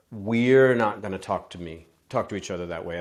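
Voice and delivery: steady, even tone on we're; calm firm we; calm inclusive boundary. Shown as a demonstration. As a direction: keep it shared and gentle, stress we're. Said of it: "it's even the use of".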